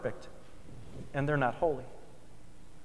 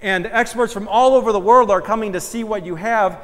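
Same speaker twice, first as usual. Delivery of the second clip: proud showman, louder and slowed at the start; proud boast; 4 semitones higher, 7 dB louder than usual. Acted. Owner unveiling his diamond to experts, proudly loud. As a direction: boast like you own the world's finest stone.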